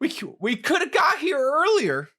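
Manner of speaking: put-on English-sounding accent by mistake; failed accent attempt. Host misses the target accent, landing on English. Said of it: "that was just English".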